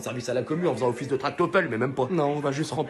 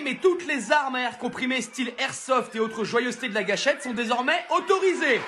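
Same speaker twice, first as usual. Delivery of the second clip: raised-pitch, relishing school announcement; gleeful headmaster speech; 5 semitones higher than usual. Acted. Headmaster announcing the yearly school manhunt, gleeful. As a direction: announce the manhunt like good news.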